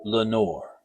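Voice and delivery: soft, distant echo of the name; faint, far-off echo; echoed murmur. A narrator's reading. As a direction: let it come back hollow, like an echo. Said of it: "an echo murmured back the word".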